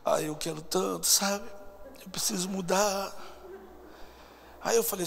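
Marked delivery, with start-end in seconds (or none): 0.0-3.1 slow, drawn-out mock pleading; troubled woman imitated. Woman talking to counsellors after service, mock pleading. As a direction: lightly imitate a woeful woman, dragging the words. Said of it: "ela ficava assim".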